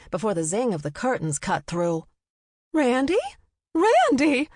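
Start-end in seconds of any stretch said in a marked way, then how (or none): 2.7-4.5 high, loud desperate calls; calling out to him in panic; crying out his name. A narrator's reading. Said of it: "the woman cried out".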